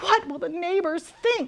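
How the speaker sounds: anxious, fretting voice. Crispin's mother, after her dragon son breathes whipped cream, worried. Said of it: "worried his mother".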